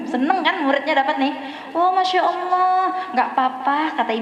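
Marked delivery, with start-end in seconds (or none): 1.8-3.9 content sigh. Retold or imitated. Woman content with old beads.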